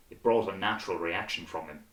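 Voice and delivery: ordinary delivery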